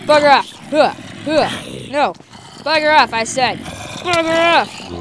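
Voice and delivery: shouting. Real, not acted. Fending off attacking guards.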